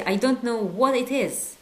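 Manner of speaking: slow, loud prompt stressing don't. Shown as a demonstration. Teacher prompting learners to translate. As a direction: read I don't know what it is slowly. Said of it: "how do we say".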